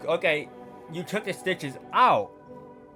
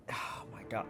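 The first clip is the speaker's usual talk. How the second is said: breathless whisper; 12 dB quieter than usual. Real, not acted. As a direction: gasp it under your breath. Realizing mistake.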